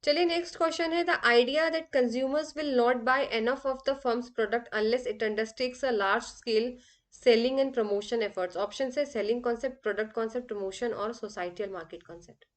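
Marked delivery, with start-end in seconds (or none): 1.0-12.4 very slow, careful dictation of the exam question; reading out a question. Acted. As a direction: read each word of the question out slowly for students. Reads the exam question aloud. (धीरे-धीरे प्रश्न पढ़कर सुनाना)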